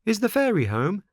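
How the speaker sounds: put-on high boy puppet voice; Pinocchio voice. A narrator's reading. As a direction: voice the anxious puppet. Pinocchio asks.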